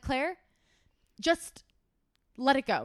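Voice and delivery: ordinary talk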